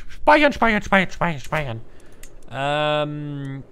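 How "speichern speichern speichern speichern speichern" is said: high frantic shouts; frantic shouting. Real, not acted. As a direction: yell it in a panic. Urgent calling out to save.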